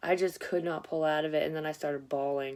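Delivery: ordinary delivery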